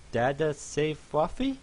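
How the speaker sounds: put-on high, slow hopeful baby voice; a dazed pony asking to be saved; weak fluffy pony.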